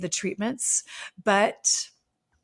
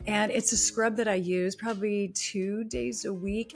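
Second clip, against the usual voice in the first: chatty, personal product endorsement over music; podcast ad read. Acted. Host telling listeners about her fall skincare, friendly ad read. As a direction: recommend it like a tip to friends.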